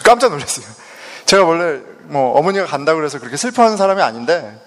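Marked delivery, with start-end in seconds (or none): none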